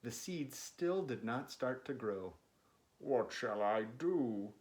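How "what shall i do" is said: mild lament. Acted. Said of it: "cried Toad".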